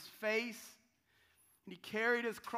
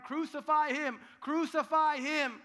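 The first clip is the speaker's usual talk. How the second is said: crowd crying out; 7 semitones higher, 9 dB louder than usual. Retold or imitated. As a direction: shout it like a mob demanding death. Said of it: "Jesus' own people then cried".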